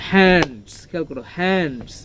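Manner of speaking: হ্যান্ডস stressed on its opening h. Shown as a demonstration. Teacher asking pupils to notice, stressed হ্যান্ডস. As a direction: push the h of হ্যান্ডস. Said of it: "হয়ের উপর একটা stress দিব".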